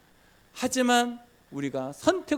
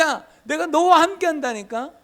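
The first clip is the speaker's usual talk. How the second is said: voicing God; 12 semitones higher, 8 dB louder than usual. God insisting to Moses.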